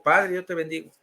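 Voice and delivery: subdued echo of the priest; lightly acted, meek response; obedient repetition. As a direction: repeat the blessing dutifully, without force. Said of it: "Y yo digo".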